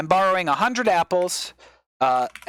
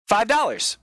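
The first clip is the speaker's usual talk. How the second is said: excited again; 6 semitones higher than usual. Pretend. Imagined trader spots the deal again.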